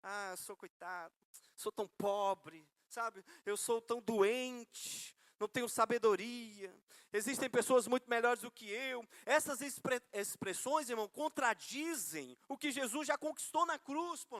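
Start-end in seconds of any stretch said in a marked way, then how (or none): 0.0-9.1 drawn-out poor-me lament; mock self-pity. Preacher acts out believers confessing negatives, mock self-pitying. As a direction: play the pitiful victim, stretching key words. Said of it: "se coloca na posição de coitadinho".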